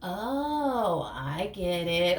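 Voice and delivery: drawn-out dawning realization; slow, knowing "oh, I see" voice; sudden realization. Acted. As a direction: stretch it out as it clicks. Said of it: "I feel like they're perceiving".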